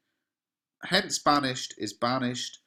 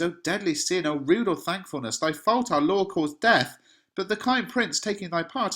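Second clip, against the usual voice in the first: angry friar; 7 semitones higher, 4 dB louder than usual. Acted. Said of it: "So he's getting angry with Romeo".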